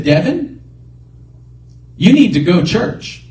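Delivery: God's call in British Virgin Islands English; island accent. Retold or imitated. Voice calling a man to church, island accent. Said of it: "with a little bit of an island accent".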